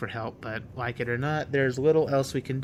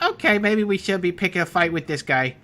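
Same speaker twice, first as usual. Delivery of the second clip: mock tough guy; 6 semitones higher, 7 dB louder than usual. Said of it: "It's like".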